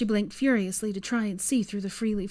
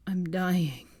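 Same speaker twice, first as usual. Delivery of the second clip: whimper. Acted. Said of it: "he whimpered".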